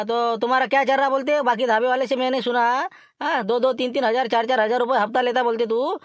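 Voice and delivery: high, loud put-on thin voice; Laxman's thin voice. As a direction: squeeze the voice thin and high to pass as someone else. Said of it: "बरोबर बारीक आवाज काढतो".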